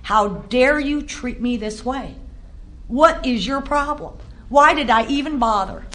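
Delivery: slow, deliberate mock fury; a hint of anger at God, slowly; angry at God. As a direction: confront God, slow and bitter. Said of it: "how angry I was at God".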